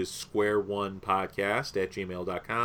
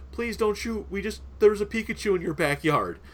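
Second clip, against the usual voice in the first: high-pitched imitation of scared kids; retold panicky plea, pitched well up; mock pleading; 9 semitones higher than usual. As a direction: plead in a raised, put-on kid voice. Retelling scared kids caught at gunpoint.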